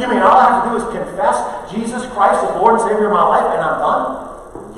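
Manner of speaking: fast, doubtful question trailing off; skeptical listener. Retold or imitated. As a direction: sound like a doubter who can't believe it. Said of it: "some people's problem".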